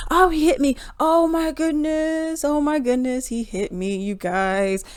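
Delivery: high, slow, fake-hurt Karen voice; mock Karen. A Karen falsely accusing a black man, high whiny mock. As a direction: whine it like a Karen crying victim. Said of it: "like a Karen".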